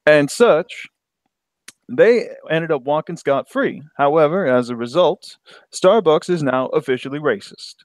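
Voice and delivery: put-on African American accent; lightly voiced African American accent; black voice. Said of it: "I get my black voice in".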